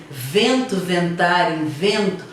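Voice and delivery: each word set apart with a pause; sound repetition. Shown as a demonstration. Teacher isolates the repeated sounds for students, slow and spaced. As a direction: stress the repeated vent in Vento, ventar, invento. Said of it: "Quando ele fala assim".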